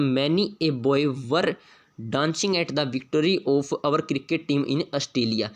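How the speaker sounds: reads the test sentence very slowly, word by word; slow dictation reading. Shown as a demonstration. Teacher reading the question sentence aloud, very slow. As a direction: spell it out slowly for the class.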